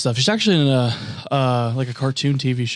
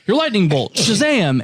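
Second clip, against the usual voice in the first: mock Shazam call; 8 semitones higher than usual. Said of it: "forearm and goes".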